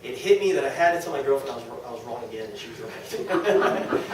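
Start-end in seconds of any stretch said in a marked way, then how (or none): 2.5-4.0 laughing. Real, not acted. Admitting girlfriend was right.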